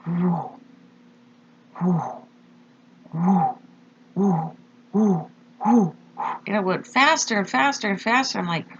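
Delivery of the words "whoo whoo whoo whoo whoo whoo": breathy retold whoosh noises; imitated whooshing. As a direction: mimic something rushing past in the dark. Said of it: "I heard this".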